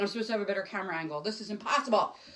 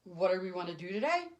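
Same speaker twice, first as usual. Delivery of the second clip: lower, unenthused puzzled echo; mock-dull introvert repeating it; blank echo; 4 semitones lower, 3 dB quieter than usual. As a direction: hand the question back without interest. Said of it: "look at me and say".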